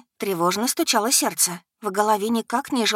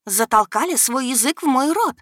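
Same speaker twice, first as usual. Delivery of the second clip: angry hiss; 6 semitones higher, 4 dB louder than usual. Acted. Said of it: "прошипела рассерженной фурией".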